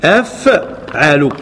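أفعل drawn out very slowly, syllable by syllable; slow pattern demo. Shown as a demonstration. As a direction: sound out أفعل for the students. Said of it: "وزنه في الصرف أفعل". (نطق الوزن أفعل ببطء شديد مقطعا مقطعا)

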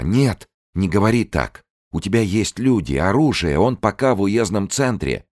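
high, loud urgent pleading; a woman urging her lover to send men; desperate insisting. Acted. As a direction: push him hard to act.

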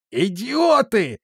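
drawn-out furious roar, pitched high. A narrator's reading. Angry captain roaring at his clumsy guards. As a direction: bellow it out in slow rage. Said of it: "взревел Рострум".

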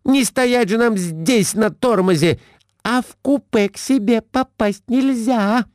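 high, shrill scolding wife; Глафира scolding. A narrator's reading. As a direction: pounce on the husband, up high. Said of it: "Набросилась Глафира Семёновна на мужа". (высокая сварливая отповедь мужу)

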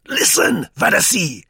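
very high, loud angry squeak. A narrator's reading. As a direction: squeal it out in fury. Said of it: "squeaked Begin's voice angrily".

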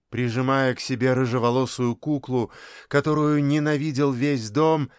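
usual speaking voice

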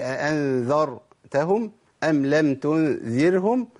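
slow, segmented "أأنذرتهم أم لم تنذرهم", pointing at each ر; quoted recitation error. Shown as a demonstration. Teacher reviewing the first mistake, slow quoted recitation. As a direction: pick out "أأنذرتهم" and "تنذرهم" slowly, stressing each ر. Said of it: "حركت الراء الأولى والراء الثانية".

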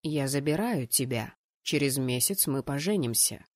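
low, matter-of-fact announcement; dry fiancé. Acted. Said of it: "сухо заявил жених".

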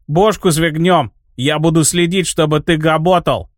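fierce lisping burr, свигнём with a throaty r. Acted. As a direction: spit it out with a throaty burred r. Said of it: "свирепо прокартавил Изи".

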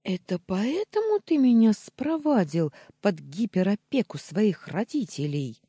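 high, loud burst of accusation; indignant shriek. A narrator's reading. Jealous wife confronting her husband, indignant shriek. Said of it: "взвизгнула Таня".

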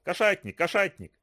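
mocking. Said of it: "насмешливо кричал".

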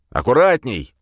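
sudden loud cry; shout. A narrator's reading. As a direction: yell it as a fake warning. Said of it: "крикнул Глеб".

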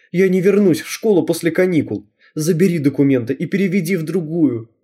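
с лёгкими слезами в голосе, жалобно; жалуется маме, чуть не плача; tearful plea. Acted. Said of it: "заревела я". (слегка плаксиво, с надрывом)

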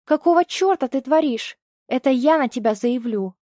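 high, loud outraged shout; mother raging at him; furious shout. Acted. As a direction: blast him with rage. Mother rages at kidnapper.

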